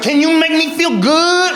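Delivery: high, slow seductive line; mock-seductive movie line; sultry actress voice. Comic imitating Halle Berry's film line, mock sultry. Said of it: "she's like".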